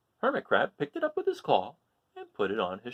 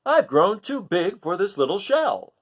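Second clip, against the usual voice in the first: higher, louder and slow crab complaint; Hermit Crab voice; 6 semitones higher, 6 dB louder than usual. Acted. Hermit Crab complains his shell is too small, high and slow. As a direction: stretch it out like a cramped little crab. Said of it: "said Hermit Crab".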